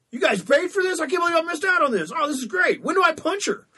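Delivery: high hammed-up cartoon delight; imitating Peter Griffin. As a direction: gush like a cartoon dad getting a lap dance. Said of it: "and he's like".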